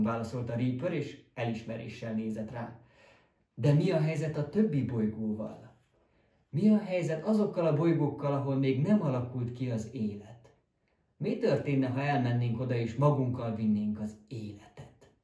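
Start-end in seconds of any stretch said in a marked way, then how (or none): 3.5-15.1 rising excitement. Acted. Scientist rhapsodizes about other planets.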